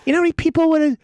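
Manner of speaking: hammed-up baffled rock musician; mock outrage. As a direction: rattle it off in disbelief. Mock outraged rockstar rant.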